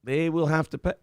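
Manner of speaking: talking with hiccups; hiccuping. Real, not acted. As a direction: hiccups breaking the words. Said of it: "I have the hiccups".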